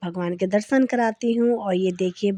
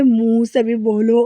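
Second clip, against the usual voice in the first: stern father; 5 dB louder than usual. Retold or imitated. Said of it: "देखो कैसे पापा बोल रहे थे".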